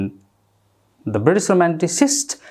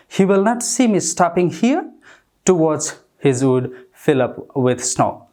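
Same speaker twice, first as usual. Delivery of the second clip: slow, measured poetry reading; poem recitation; much slower than usual. Acted. Teacher reading Frost to the class, slow poem recitation. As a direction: read each line slowly, savouring it.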